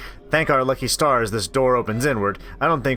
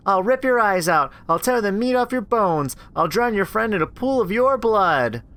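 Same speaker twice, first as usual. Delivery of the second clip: menacing monster; 9 semitones higher than usual. Acted. Monster threatening Rachel through the door, menacing.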